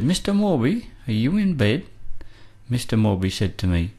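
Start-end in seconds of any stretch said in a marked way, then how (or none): 0.0-1.9 high, carrying call toward a house at night. Retold or imitated. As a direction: call his name up high, as if from outside. Calls out to Morby at night.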